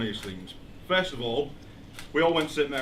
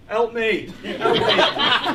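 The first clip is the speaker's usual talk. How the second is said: yelling for help; 9 semitones higher, 8 dB louder, much slower than usual. Retold or imitated. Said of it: "they're like".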